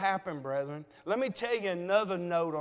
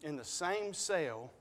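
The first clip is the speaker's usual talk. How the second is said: emotional; 7 semitones lower, 5 dB quieter than usual. Real, not acted. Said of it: "I'm emotional, y'all".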